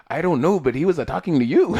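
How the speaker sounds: put-on hint at a poor Asian accent, laughing at the end; bad Asian accent. Friend Mike answering the driver, bad mock Asian accent. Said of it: "That was a horrible Asian accent".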